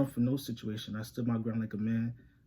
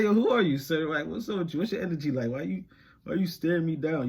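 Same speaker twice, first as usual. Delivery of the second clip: retold confrontation; 5 semitones higher, 4 dB louder than usual. Retold confronting of a staring hater.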